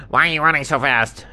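high, loud, quick question; hurried cartoon ostrich shout; ostrich calling ahead. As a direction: call out while running. Ostrich shouts while running.

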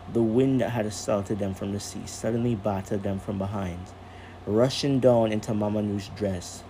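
calm storyteller reading aloud; story narration. A narrator's reading. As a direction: read it like a bedtime story.

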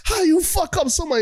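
high-pitched incredulous scolding; mock exasperation. Family berates Damian over Alfred.

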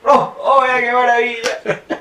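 alto, lento y riendo de emoción; exclamación encantada. Real, not acted. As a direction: celebrarlo encantado entre risas. Exclamación encantada con risa. (exclamación encantada entre risas)

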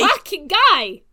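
loud, slow vampire snarl; Nando voice. Retold or imitated. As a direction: drag it out like a feral vampire. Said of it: "I can only do Nando".

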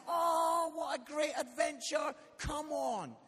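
mock-upbeat, pitched high; put-on cheerfulness. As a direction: brightly talk up a big adventure. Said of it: "you need to be smiling and waving".

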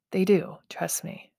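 whispered aside; whispering. Real, not acted. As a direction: whisper it like a secret. Aside confiding to viewers.

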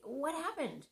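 sharp worked-up interrogation; attacking demand. Retold or imitated. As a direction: confront him as he walks in. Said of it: "I may attack and say".

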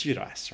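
"Giudice" said JOO-dice; anglicised pronunciation. Shown as a demonstration. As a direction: rhyme the end of "Giudice" with dice. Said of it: "Do you say Giudice or Giudice?".

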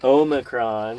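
"Omicron" said as "OH-muh-cron"; corrected pronunciation. Shown as a demonstration. Parent repeating the correction, "Omicron" as "OH-muh-cron". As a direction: say "Omicron" with a long opening O. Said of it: "It's Omicron".

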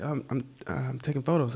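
high, soft, hesitant retelling; anxious admission. Retold or imitated. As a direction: imitate stammering out an awkward confession. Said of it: "give me so much anxiety".

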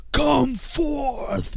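hammed-up crescendo proclamation; mock climactic command. Retelling the song's peak, commanding the dead man out. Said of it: "it builds up to the crescendo of the song".

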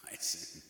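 "Hyacinth" repeated in a low pitch; low call-and-repeat "Hyacinth"; demonstrated pronunciation. Shown as a demonstration. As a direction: model "Hyacinth" for repeating, voice dropped. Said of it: "Say it with me".

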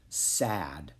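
low, soft, sorrowful horse voice; stallion's inner voice. A narrator's reading. Grieving horse speaking into Jack's mind, low and quiet. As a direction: let the word sink, low and quiet. Horse's thoughts heard by Jack.

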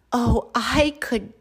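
high, drawn-out storybook delight; overjoyed. Acted. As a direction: burst with joy, stretching the words high. Pea thrilled with new underwear.

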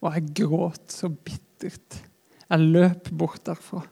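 normal talking voice

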